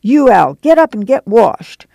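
mother rousing the household; calling out. A narrator's reading. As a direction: call the sleepers up out of bed. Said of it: "she called".

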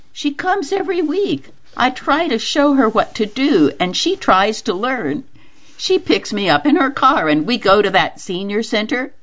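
Mama's quoted chat. Acted.

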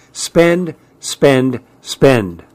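"Spend, spend, spend" as separate falling beats; hammering. A narrator's reading. Mother berating her husband over money, hammering each word. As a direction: hammer each "spend" home, stepping down in pitch. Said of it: "she hammered".

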